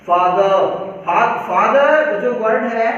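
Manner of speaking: फादर with a long open aa, said slowly; father pronunciation. Shown as a demonstration. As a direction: show the aa in फादर. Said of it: "यदि मैं बोलूँ फादर". (फादर में खुला लंबा आ, धीरे से)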